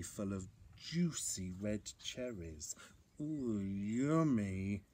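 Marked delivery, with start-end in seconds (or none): 3.2-4.8 slow, drawn-out relish; hungry mumble. A narrator's reading. Bear spots juicy cherries, slow hungry relish. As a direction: savour it slowly, as a hungry bear. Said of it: "he mumbled as his tummy rumbled".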